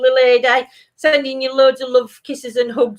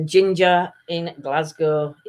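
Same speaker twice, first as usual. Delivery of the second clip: slow reading; 4 semitones lower, slower than usual. Shown as a demonstration. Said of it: "Ginger is".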